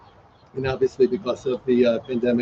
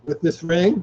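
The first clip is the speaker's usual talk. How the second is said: officiant's lead line; 3 semitones higher than usual. Shown as a demonstration. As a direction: clear vow prompt. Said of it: "please repeat".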